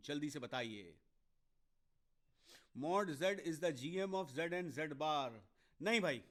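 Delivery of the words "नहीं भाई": louder, firm correction; firm teacher's no, short and sharp; emphatic no. Real, not acted. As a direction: stop a student's wrong conclusion. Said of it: "इतना conclusion पे मत जाइए".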